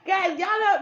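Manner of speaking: high giggling laugh into words. Real, not acted. Apologising to viewers through real laughter. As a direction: laugh helplessly at yourself. Laughing at her own excitement.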